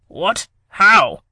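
sharp shocked question. Acted. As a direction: react in disbelief. Shocked henchmen react.

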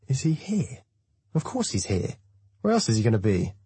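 high-pitched echoed question, scoffing after; incredulous echo. A narrator's reading. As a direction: throw the question back at him. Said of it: "turns to look at me suspiciously".

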